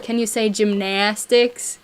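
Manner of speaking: slow imitation of a Buffalo accent on "gymnastics". Girls teasing her cousin's speech, imitated Buffalo accent. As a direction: stretch the short-a in "gymnastics", Buffalo style. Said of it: "they were pointing that out".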